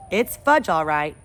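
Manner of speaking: a hint of a boy stating it plainly; Peter's voice. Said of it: "I said".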